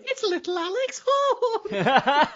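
hammed-up announcement of a name; booming Taskmaster summons. Summoning the Taskmaster's assistant, a hammed-up slow, high, loud announcement. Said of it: "this fucking figure going".

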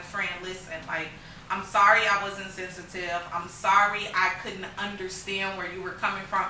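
humbly saying sorry to her friend; humble apology. Retold or imitated. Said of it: "to just be like".

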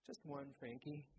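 sadly. Acted. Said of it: "She smiles sadly and says".

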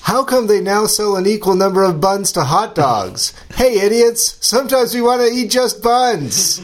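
high, mocking whiny voice; mimicked tweeter voice. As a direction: squeak it out like a petulant tweeter. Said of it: "I'm gonna try to mimic the voice".

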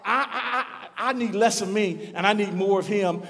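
a laughing, quickened inner cry; laughing realization. Retold or imitated. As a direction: laugh through the words of someone who just got it. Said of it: "you recognize".

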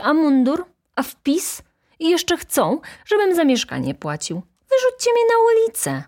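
loud, high, fast angry rant; student ranting at the landlord's men about rent; irritated tirade. A narrator's reading. Loud irritated rant. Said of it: "mówił zirytowany".

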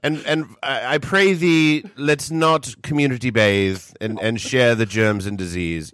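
high, slow olde English herald; hammy stage actor. Acted. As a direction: proclaim it like a town crier with a wink. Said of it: "scientifically oriented guy going to the town council".

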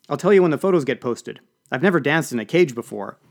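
enthusiastic. Acted. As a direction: gush about the party. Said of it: "she said enthusiastically".

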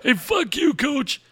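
high mock curse; feisty old fan spits it; old caller snapping. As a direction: caller cursing the coach, high. Caller snaps.

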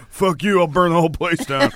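high-pitched mock fury; retold angry outburst. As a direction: play up an over-the-top tantrum. Retold outburst over missing candy.

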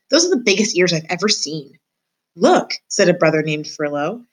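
measured read-aloud voice for a class; story narration. A narrator's reading. Teacher reading a chapter aloud to her class, storybook narration.

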